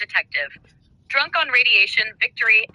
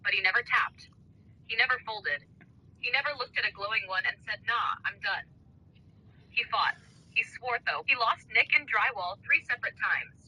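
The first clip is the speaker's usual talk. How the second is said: wrestling promo; 6 dB quieter than usual. Acted. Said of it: "wrestling style".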